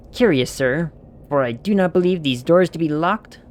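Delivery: put-on stately old-fashioned speech, even and measured; lightly voiced stately lord; archaic lord. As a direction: lord scolding in thee and thou. Archaic lordly character voice.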